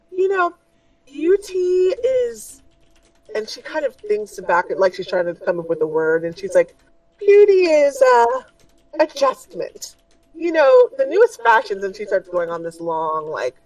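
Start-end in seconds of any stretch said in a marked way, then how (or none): 0.1-11.8 a dainty merchant offering a fix; high shopkeeper voice. Acted. Shopkeeper assuring the party, high and fussy.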